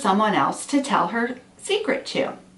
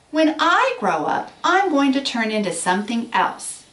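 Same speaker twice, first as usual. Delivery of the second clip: a boastful little caterpillar, pitched high; bragging caterpillar; 6 semitones higher than usual. A narrator's reading. Caterpillar bragging to the snail, lightly boastful. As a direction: brag it to your friends. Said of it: "She bragged about it to her friends".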